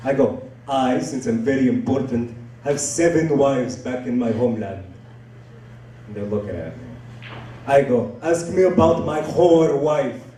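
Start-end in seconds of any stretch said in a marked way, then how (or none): 0.7-4.8 self-important put-on foreign accent; Abdul. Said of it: "his name is Abdul". 8.2-10.2 slow, put-on foreign accent; drawn-out prompt in a thick foreign accent; Abdul. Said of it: "his name is Abdul".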